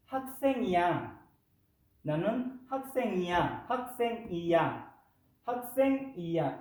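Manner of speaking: 학생이야 said fast as hakseng-iya; model Korean phrase. Shown as a demonstration. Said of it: "sería algo así". (학생이야 como ejemplo)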